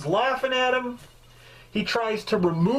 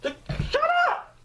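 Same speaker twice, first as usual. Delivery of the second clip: angry shout. Pretend. Yelling back at gawkers who laugh at his costume, full shout. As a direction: yell them down at full force. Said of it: "I'd be like".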